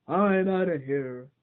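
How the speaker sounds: slow loud yelp; loud scared bear yelp. Acted. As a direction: yelp and bolt away.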